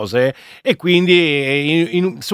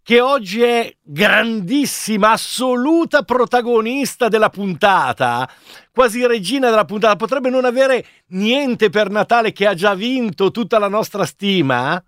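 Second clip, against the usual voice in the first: showy game show host. Acted. Host announces quiz winner.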